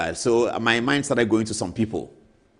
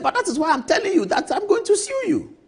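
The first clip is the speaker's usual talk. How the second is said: laughing; 4 dB louder than usual. Retold or imitated. Lawyer friend laughing while threatening.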